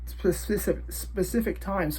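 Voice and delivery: slurred, numb from the dentist; numb mouth. Real, not acted. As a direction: talk through a numbed mouth. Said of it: "my face is numb".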